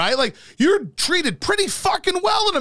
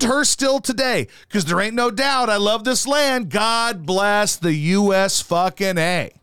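recited anthem. Acted. Recites a country song.

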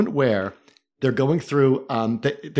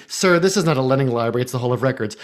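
smarmy clerk; 2 semitones lower than usual. Retold or imitated. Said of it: "said in the same smarmy tone".

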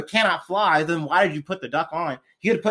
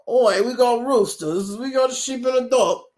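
put-on Cockney accent; 4 semitones higher than usual. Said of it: "I use, like, Cockney accent".

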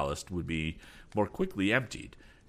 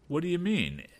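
alarmed; 11 semitones higher than usual. Acted. Father alarmed.

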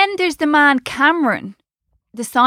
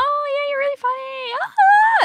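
laughing. Real, not acted. Teasing friend, laughing reply.

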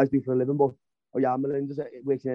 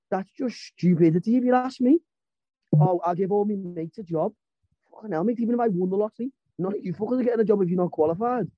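higher, exasperated outburst about cronyism; heated rant; 5 semitones higher than usual. Real, not acted. Fan slamming jobs for mates, heated and exasperated. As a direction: let it boil over, fast at the end.

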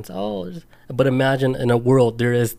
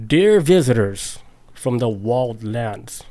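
slow, stately welcome from a stranger; deep formal voice; slower than usual. Retold or imitated. Stranger greeting the lost sailors, slow and stately. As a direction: announce it like a grand envoy, slowly. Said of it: "like, in a deep voice".

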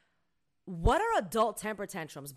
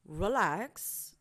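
calming; 2 semitones lower than usual. Retold or imitated. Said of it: "Tactics that I have to use with kids".

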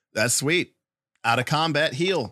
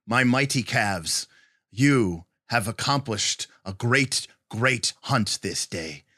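wise elder. Acted. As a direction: address the young hunters like a proud elder. Elder addresses young hunters.

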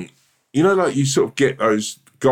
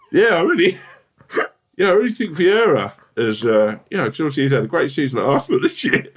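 higher, laughing football chatter; awkward small talk; 8 semitones higher than usual. Retold or imitated. Third wheel beside kissing couple, nervous laughing chatter. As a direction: fill the silence nervously.

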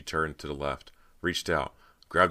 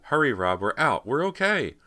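high, loud excited urging; calling out; 11 semitones higher, 7 dB louder than usual. A narrator's reading. Cody calls Rob out to safety, excited shout. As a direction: shout him toward safety. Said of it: "she called".

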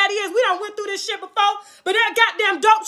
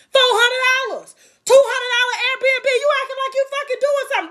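mocking laugh; 7 semitones higher, faster than usual. Mocking rival's cheap trip.

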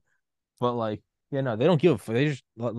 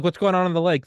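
curious question; 8 semitones higher, 5 dB louder than usual. Retold or imitated. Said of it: "I'm like".

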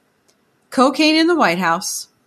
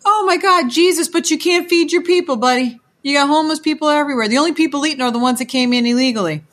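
high, fast indignant tirade; outraged rant; 5 semitones higher, faster than usual. Real, not acted. Mocking the mayor in a high, fast, indignant rant. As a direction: tear into him, fast and high.

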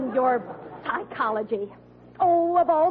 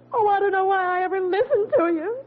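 crying. Acted. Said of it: "Don't cry".

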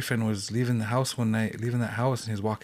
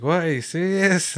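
high, loud retold disbelief; acted-out astonished question; incredulous; 6 semitones higher, 5 dB louder than usual. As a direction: react as if you can't believe it. Retold shock at dead woman's name.

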